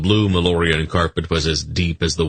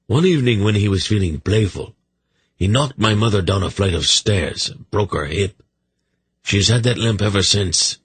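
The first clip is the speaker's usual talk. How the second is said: slightly higher, chatty royal voice; lightly higher-pitched king; lightly voiced wry king; 4 semitones higher than usual. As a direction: voice a talkative king, a touch wry.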